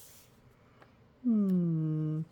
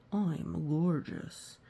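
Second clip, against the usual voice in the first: slow vain purr; 3 semitones lower, 3 dB quieter, slower than usual. Acted. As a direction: admire yourself. Vain vulture.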